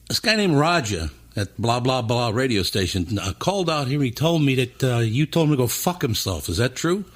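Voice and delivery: high-voiced Philly boss, imitated; Bruce. Boss checking a radio station complaint, high imitated voice. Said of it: "talk really high voice like this".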